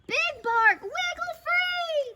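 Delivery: high, urgent call upward; shouting. A narrator's reading. Prairie dogs shout up to captive, urgent. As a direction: stretch it out to carry far. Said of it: "the prairie dog shouted".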